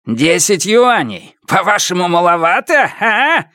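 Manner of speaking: high, indignant outburst; furious high-pitched challenge; roaring. A narrator's reading. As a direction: roar the taunt at him. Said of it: "взревел он".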